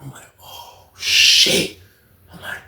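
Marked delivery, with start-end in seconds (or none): 0.4-1.8 whispered shock. Retold or imitated. Shocked reaction.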